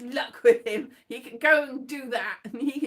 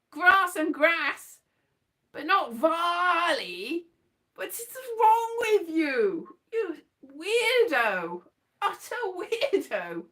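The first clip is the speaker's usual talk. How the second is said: mock outrage; 4 semitones higher, slower than usual. Real, not acted. Mock indignant rant.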